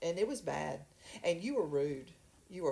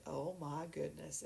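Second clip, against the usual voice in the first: 1 hushed mock gasp; 2 semitones lower, 10 dB quieter than usual. Pastor's retold reaction.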